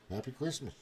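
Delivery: his own voice, softly; repeating the kid's line under his breath; muttered, own version. Retold or imitated. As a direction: say it back quietly. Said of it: "That's what I'm gonna say".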